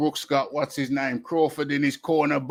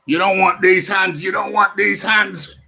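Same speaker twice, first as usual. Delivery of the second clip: higher, louder boxing taunt; hyped trash talk; 3 semitones higher, 7 dB louder than usual. Pretend. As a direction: shout it like a boxer squaring up. Hyping up the fight.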